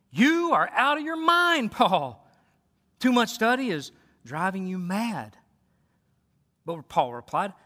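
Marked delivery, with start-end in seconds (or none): 0.1-5.4 loud exclamation. Acted. Festus interrupts Paul's defense, exclaiming loudly. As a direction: read it as a mildly loud accusation. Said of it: "Festus exclaimed in a loud voice".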